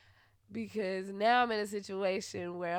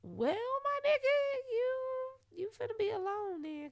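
sassy dismissal; 14 semitones higher than usual. Real, not acted. Answering the ex's plea, sassy. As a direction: brush him off with sass.

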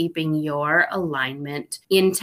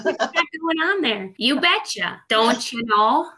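hammed-up Minnesota accent, higher; 5 semitones higher than usual. Joking about Minnesotan sayings in a hammed-up Minnesota accent. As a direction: playfully put on a thick Minnesota accent. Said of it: "that Minnesota accent".

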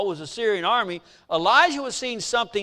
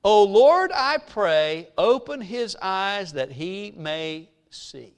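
prayer; much slower than usual. Retold or imitated. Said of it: "This is the prayer. Listen".

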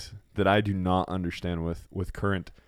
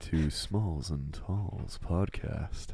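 slow, smooth radio host intro; mock radio announcer voice; 2 semitones lower, 5 dB quieter, much slower than usual. Shown as a demonstration. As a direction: announce the show like a DJ. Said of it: "Was that radio announcer good?".

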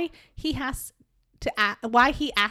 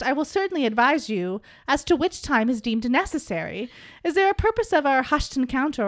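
put-on a touch of a grand old gentleman, louder; lightly hammed-up archaic speech; old dude voice; 3 dB louder than usual. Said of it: "we're gonna do this in old dude".

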